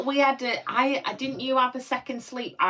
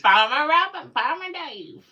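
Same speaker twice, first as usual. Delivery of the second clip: high, loud, drawn-out mock of his delivery; imitazione scherzosa; 7 semitones higher, 5 dB louder, slower than usual. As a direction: mimic him in a slow, raised singsong. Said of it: "I don't say it like that".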